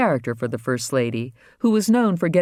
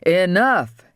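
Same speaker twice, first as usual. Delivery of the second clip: order; 5 semitones higher, 5 dB louder than usual. Acted. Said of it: "Andy ordered him".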